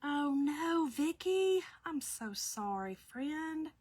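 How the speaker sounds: drawn-out, soft sympathy; high "oh no" easing into a gentle, slow sorry; sympathetic. Real, not acted. Host consoling a viewer, tender and sorry.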